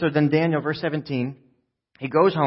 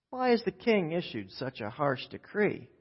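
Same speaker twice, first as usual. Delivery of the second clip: soft, cool cowboy drawl; John Wayne; 9 dB quieter than usual. Acted. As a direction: play it cool and unhurried like a western hero. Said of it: "John Wayne just slowly cocks his head".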